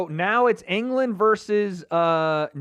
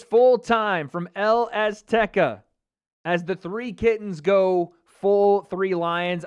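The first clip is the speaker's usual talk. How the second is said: slow, louder broadcaster read; announcer sign-off; 3 dB louder, slower than usual. Shown as a demonstration. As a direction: call it like the official full-time announcement. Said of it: "We have to start again".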